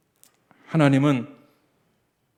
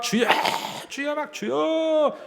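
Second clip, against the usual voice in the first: frantic fearful prayer; 14 semitones higher, slower than usual. Retold or imitated. Father's frantic prayer in fear.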